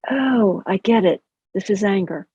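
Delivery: name the feeling with neutral interest; demonstrating a detached, curious noticing; curious, unemotional. Shown as a demonstration. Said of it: "tone of voice needs to be something like this".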